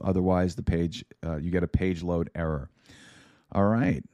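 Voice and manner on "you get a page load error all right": ordinary talk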